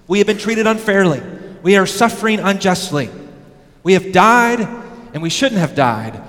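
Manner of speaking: loud, high protesting cry of the martyrs. Acted. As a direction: cry out against being wronged, demanding an answer. Martyrs voiced crying to God.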